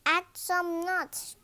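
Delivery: high, loud call from the crowd. A narrator's reading. A boy in the crowd calls to George, eager call. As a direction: shout advice through the window. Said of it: "George called a boy".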